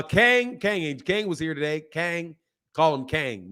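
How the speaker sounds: "Kang" for king, with a Southern vowel. Shown as a demonstration. Host answering a viewer about his pronunciation, "Kang" for king. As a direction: say "Kang", king with an "ang" sound. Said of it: "pronunciation of king".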